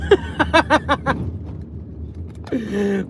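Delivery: helpless amused cackle; real delighted laugh. Real, not acted. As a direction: laugh hard in disbelief. Laughs on spotting wife.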